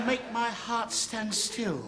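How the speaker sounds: slow, lingering love line; romantic declaration. Acted. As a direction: draw out the romantic compliment. Tries out romantic inscriptions.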